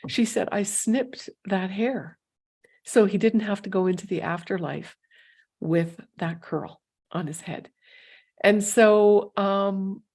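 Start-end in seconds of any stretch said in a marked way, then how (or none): 0.5-7.7 choked up. Real, not acted. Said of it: "I'm getting choked up here".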